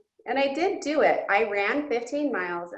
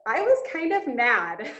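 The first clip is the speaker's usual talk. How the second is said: half laugh, half cry as she admits it; giggling, a bit choked up; laughing tearfully; 3 semitones higher than usual. Real, not acted. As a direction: laugh through the tears. Laughing while admitting anger.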